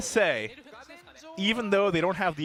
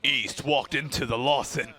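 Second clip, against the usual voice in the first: storyteller voice; 3 semitones lower than usual. Pretend. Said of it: "the storyteller voice comes on".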